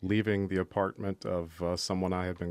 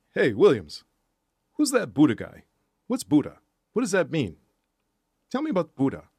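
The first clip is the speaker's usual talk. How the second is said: put-on very loud, brash, swooping macho tough-kid voice; 8 semitones higher, 9 dB louder than usual. Recalling what he would ask in the classroom after school, imitating a tough guy. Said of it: "he talked like this".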